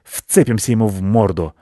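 businesslike cat. A narrator's reading. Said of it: "деловито сказал Рыжий".

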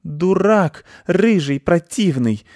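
high, sharp offended squeal; hissing insult. A narrator's reading. Masha the cat hisses insults at the ginger tomcat. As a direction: spit the insult at him. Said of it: "зашипела на него Маша-кошка".

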